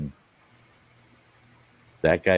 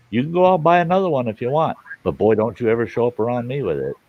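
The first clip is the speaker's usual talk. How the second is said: stern fast warning; 4 semitones higher, faster than usual. Retold or imitated. Stern retold lecture.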